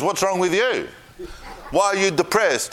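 wife. Retold or imitated. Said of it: "she goes".

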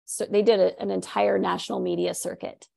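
hoarse, strained voice; rough, tired voice; losing voice. Real, not acted. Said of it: "I'm losing my voice".

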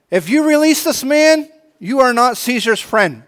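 crying out. Acted. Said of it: "they cried out to him and said".

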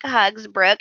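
ordinary delivery

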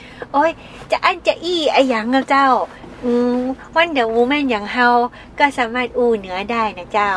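light mock Northern Thai lilt, slowing down midway; Northern Thai dialect. Joking that Wonder Woman speaks Northern Thai, light Northern Thai accent. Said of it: "เล่นมุกแบบพูดได้หลายภาษา".

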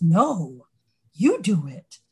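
a hint of a stubborn kid pushing it back; lightly voiced kid refusing. Child refusing the parent's errand, lightly mocked. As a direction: toss the chore back like a reluctant child. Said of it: "Go inside and buy some chips".

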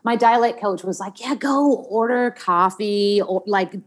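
put-on General American accent. Shown as a demonstration. Actor telling her co-host about her dialect coach, American accent. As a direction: chat as an American, careful r's. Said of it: "we'd talk in an American accent".

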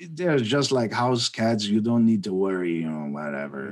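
put-on German accent. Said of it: "I gotta try to do the German accent".

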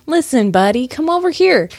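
mock-angry challenge, pitch jumping up at the end. Clue describer voicing the mimed angry guitarist, mock angry. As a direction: call out a playful, put-on challenge. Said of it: "now he's angry".

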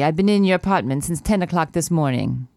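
attempted Polish drifting toward Italian; badly faked Polish accent that wanders; wandering Polish accent. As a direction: try Polish and slip into Italian. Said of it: "that accent really went places".

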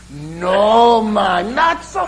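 a loud Jamaican-tinged Irish protest; mock Irish brogue. Irishman in disbelief at the coincidence, loud mock Irish brogue. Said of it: "my Irish brogue sounds a lot like Jamaican".

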